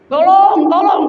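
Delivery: high, drawn-out call for help; mock cry for help. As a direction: call out as the prankster, pitched well up. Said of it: "Baru teriak lagi tuh".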